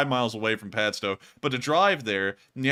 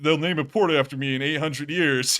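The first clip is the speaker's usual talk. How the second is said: mock Irish; 2 semitones higher, 4 dB louder than usual. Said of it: "speaking like I'm Irish".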